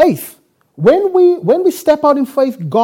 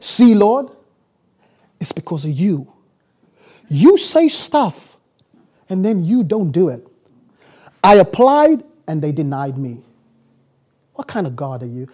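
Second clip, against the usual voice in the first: straight-talking complaint to God; 4 semitones lower than usual. Retold or imitated. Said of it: "I'ma tell him straight".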